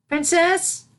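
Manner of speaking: put-on high, small voice of a young filly calling; a timid young pupil peeking in; little filly voice. Filly calls her mentor again.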